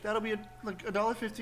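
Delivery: lightly voiced sweet old lady; polite chirpy old lady tone; elderly singsong. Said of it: "she's got a cute little old lady voice".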